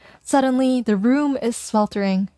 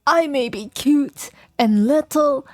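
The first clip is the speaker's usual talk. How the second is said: high, slow little dog voice; cute dog voice; 6 semitones higher, slower than usual. Acted. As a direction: play a tiny proud puppy. Voicing Sprinkles the dog professor.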